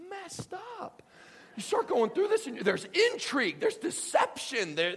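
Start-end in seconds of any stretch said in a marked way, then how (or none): 0.1-1.0 shocked disbelief. Retold or imitated. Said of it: "you're suddenly shocked by".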